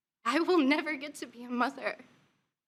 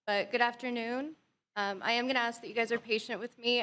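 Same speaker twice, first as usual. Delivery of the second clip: quiet, tired voice, day after surgery; weak after surgery; 3 dB quieter than usual. Real, not acted. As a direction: speak softly, drained and careful. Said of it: "I just had surgery yesterday".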